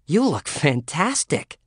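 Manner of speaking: blurted. Acted. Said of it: "she blurted".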